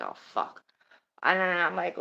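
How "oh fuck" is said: breathless whispered oh fuck; whispered curse. Retold or imitated. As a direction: hiss it under your breath, caught out. Realising she sleep-talked.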